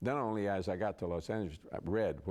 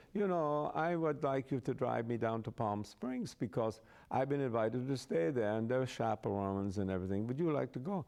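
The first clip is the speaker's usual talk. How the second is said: imitated German-accented queen's invitation; lightly put-on German accent; 3 semitones higher than usual. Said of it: "she talked like this".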